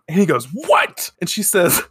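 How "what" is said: high-pitched mock outraged yelp; Artemis. Artemis reacting to being called a liar, mock screamed outrage. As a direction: imitate an offended screamed retort. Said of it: "they're screaming at each other".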